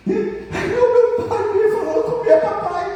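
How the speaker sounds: mocking the fooled son.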